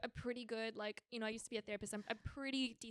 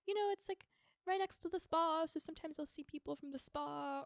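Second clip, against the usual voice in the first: imitating date; 5 semitones higher than usual. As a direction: ham up his clueless answer. Quoting date's reply.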